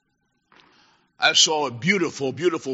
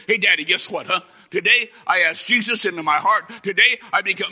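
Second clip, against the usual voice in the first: lightly voiced excited child, a bit higher; thrilled daughter; 3 semitones higher than usual. Daughter telling Daddy she asked Jesus in, thrilled. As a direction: retell a child's eager news. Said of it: "she was thrilled and excited".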